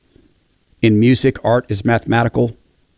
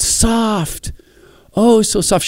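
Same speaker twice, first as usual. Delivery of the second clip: put-on higher little girl voice, wondering; a child voiced in wonder; 11 semitones higher, much slower than usual. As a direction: coo it like a small child touching hair. Little girl touches woman's hair.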